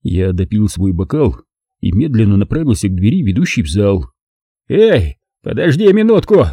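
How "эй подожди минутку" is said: higher, startled call after him; mildly amazed shout; astonished call. A narrator's reading. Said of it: "окликнул меня Броган изумлённым голосом".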